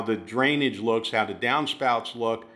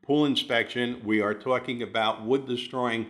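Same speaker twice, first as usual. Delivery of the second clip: all in one breath. Real, not acted. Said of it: "I spit that out without taking a breath".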